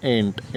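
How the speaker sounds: "Ain't" said low and short, like "aint"; ain't pronunciation. Shown as a demonstration. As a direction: drop to a clipped "Ain't". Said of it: "इसको भी क्या बोल सकते हैं हम". ("Ain't" नीचे सुर में छोटा "एंट")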